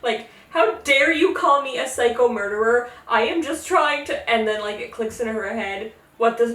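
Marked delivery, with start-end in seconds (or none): 0.5-4.3 mock indignant. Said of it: "gets really pissed off".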